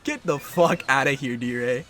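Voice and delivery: hyped, loud taunting; loud trash talk. Real, not acted. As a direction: shout him off the field. Trash talk after a hit.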